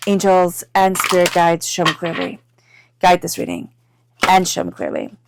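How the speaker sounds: spoken invocation. Real, not acted. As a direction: call on the guides in even, repeated phrases. Invokes guides while shuffling cards.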